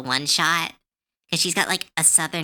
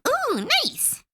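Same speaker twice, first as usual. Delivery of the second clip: delighted ooh. Real, not acted. Reacting to a friend's pic.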